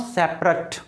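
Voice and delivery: सेपरेट modelled as SEP-rut; सेपरेट in two syllables, SEP-rut; ending said "ut". Shown as a demonstration. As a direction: say सेपरेट with a short final "rut". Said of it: "एटी को तो मैं क्या बोल रहा हूँ?".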